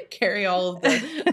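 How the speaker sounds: laughing through words; giggling while talking. Real, not acted. Laughing at the joke.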